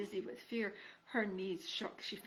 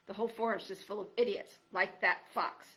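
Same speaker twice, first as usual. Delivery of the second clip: put-on loud cranky old creature; grumpy old porcupine; 5 dB louder than usual. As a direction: bark it like a grouchy old hermit.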